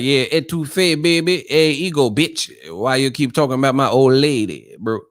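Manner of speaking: New Orleans slang voice, pitched a little up; playful New Orleans accent impression. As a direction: mimic the guys from Louisiana. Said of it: "that's how they talk".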